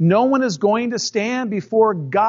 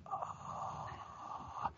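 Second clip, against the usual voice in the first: stifled laugh; 24 dB quieter than usual. Retold or imitated. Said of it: "it's sort of like".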